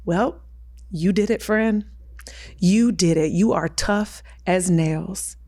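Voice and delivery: low, slow sarcastic inner voice; deadpan mock congratulation, dragged out low. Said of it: "this very sarcastic voice".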